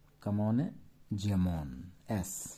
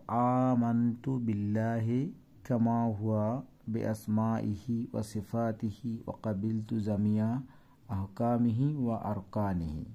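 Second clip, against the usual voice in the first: reciting Arabic; slower than usual. Shown as a demonstration. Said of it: "আমি কিন্তু আরবিটা দেখে দেখে বললাম".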